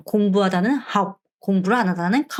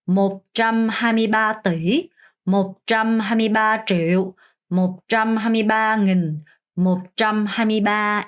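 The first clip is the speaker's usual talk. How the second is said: reading demo; much slower than usual. Shown as a demonstration. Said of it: "그럼 읽어보면".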